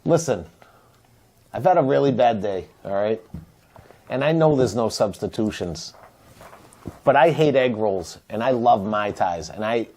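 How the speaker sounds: low, earnest pretend plea to a server; solemn, passionate appeal. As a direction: beg for a favour, mostly low-pitched. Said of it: "It was passionate".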